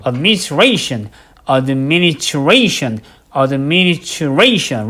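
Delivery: slow drilled administration, ration stressed. Shown as a demonstration. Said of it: "레이션만 크게 발음해 주시면 되겠네요".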